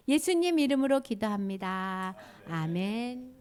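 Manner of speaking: sing-song prayer, starting high, settling toward the close. Real, not acted. Teacher praying with children for victory, sing-song prayer.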